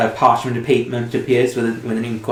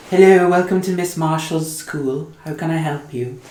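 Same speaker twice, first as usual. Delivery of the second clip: over the intercom; 5 semitones higher than usual. Acted.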